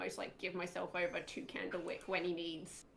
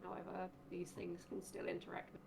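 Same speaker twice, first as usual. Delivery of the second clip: hushed, much softer aside; acted whisper; 9 dB quieter than usual. Player whispers to companion crouched beside him, hushed whisper. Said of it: "literally going to whisper to him".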